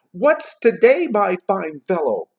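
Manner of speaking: high, loud, hearty call; calling again. A narrator's reading. Scrooge asking the boy below, calling heartily. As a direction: hail the lad from above, stretching the ending. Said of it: "Scrooge said again".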